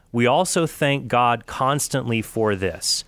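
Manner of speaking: slow, measured scripture reading. Acted. Quoting Paul's letter to the Thessalonians, slow scripture reading. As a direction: read the verse aloud slowly and deliberately.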